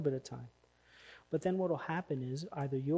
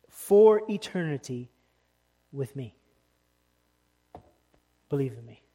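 voicing Jesus; 6 dB louder than usual. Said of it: "That's what Jesus is saying".

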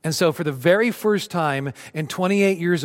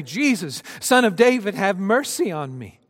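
crying out; 6 semitones higher than usual. Acted. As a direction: call out to Jesus across the crowd. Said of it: "he began to cry out and say".

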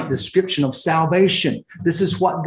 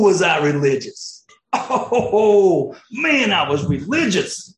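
voicing Paul. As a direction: let Paul marvel aloud, then drop to a whisper. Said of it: "He's like".

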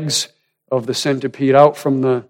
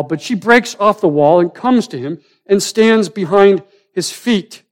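higher-pitched, urgent sermon storytelling; impassioned preaching; 7 semitones higher, 6 dB louder than usual. Real, not acted. Preacher tells congregation of her bold step, impassioned. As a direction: preach the story with rising energy. Preacher dramatizes the woman stepping forward.

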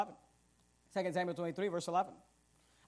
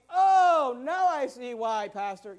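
mock realization; 2 semitones higher, 6 dB louder, much slower than usual. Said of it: "you'll probably start realizing".

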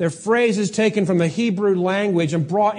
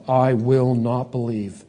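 defiant refusal; 5 semitones lower, slower than usual. Acted. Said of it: "willful defiance of God".

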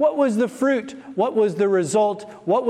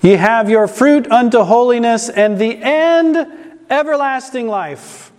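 reads the verse out loud and strong; loud scripture reading; 6 dB louder than usual. Real, not acted. Preacher reading scripture to congregation, loud and strong.

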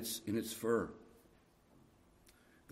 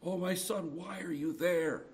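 tender plea; 6 semitones higher than usual. Acted. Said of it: "As if God is asking".

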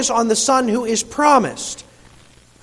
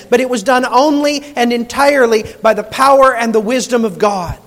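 raised, emphatic sermon delivery; impassioned preaching; 3 semitones higher, 4 dB louder than usual. Real, not acted. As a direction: preach it with rising conviction. Preacher builds on divine plan.

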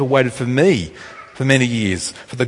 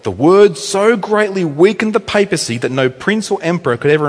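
raised-pitch, declamatory sermon reading; emphatic quote reading; 4 semitones higher than usual. Acted. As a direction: read it out with weight, stretching key phrases. Reads Luther quote aloud to congregation.

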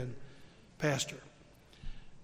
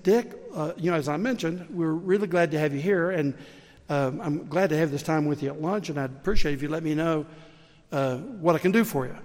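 restless politician; 4 dB louder than usual. Retold or imitated. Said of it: "And so he said".

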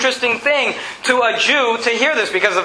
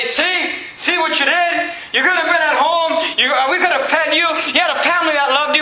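higher-pitched reproachful scolding; mock scolding; 6 semitones higher than usual. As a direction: scold her like a wronged husband, higher. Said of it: "You would think that he's gonna yell at her".

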